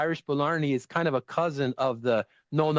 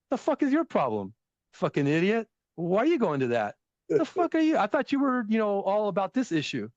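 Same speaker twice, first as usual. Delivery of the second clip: mock New York rant; 6 semitones higher than usual. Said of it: "the New York thing".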